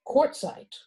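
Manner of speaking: name it briskly, as a character's thought. A narrator's reading. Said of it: "Badger thought briskly".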